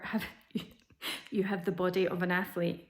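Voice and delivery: breaking into a laugh mid-quote; amused disbelief. Real, not acted. Retelling doctor's surprise verdict, tickled and laughing. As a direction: let a laugh interrupt the doctor's words.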